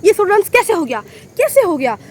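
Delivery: a replayed outburst of disbelief; shocked reaction. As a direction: retell the shock of seeing it happen. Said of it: "reaction था कि".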